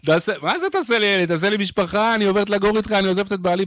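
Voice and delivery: a lightly done swooning woman from the crowd; swooning fan. Retold or imitated. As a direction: play the smitten fan begging. Imitating a swooning female fan.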